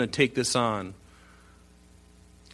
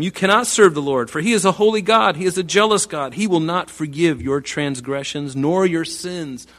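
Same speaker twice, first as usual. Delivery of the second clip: raised, forceful prophet's warning; stern proclamation; 5 semitones higher, 6 dB louder than usual. Acted. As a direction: declaim it high and loud like a solemn warning. Declaims Joshua's warning to the people.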